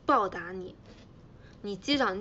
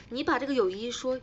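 ordinary talk

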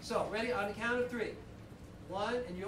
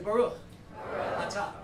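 each word held apart for the room to echo; call and response; 2 semitones lower than usual. Shown as a demonstration. Rabbi leading the congregation word by word, call and response. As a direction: give one word at a time for the congregation to repeat. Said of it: "repeat after me".

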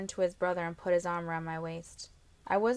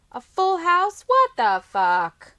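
loud, high disbelieving shout; outraged cry; 11 semitones higher, 14 dB louder, slower than usual. A narrator's reading. Brother shouting at the poker table in disbelief. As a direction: scream it in outrage at losing. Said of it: "Trenton cried".

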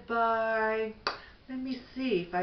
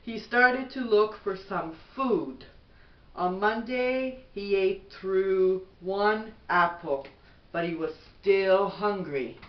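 gentle, even bedtime storybook read; reading to children; 3 dB louder than usual. Acted. Mother reading a bedtime book to her son, gentle storybook voice.

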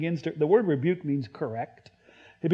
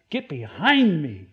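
stern rebuke. Acted. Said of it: "he needed a stern rebuke".

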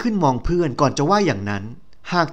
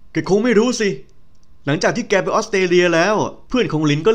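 friend Meka; 3 semitones higher than usual. Acted. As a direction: gossip to an old friend, half teasing.

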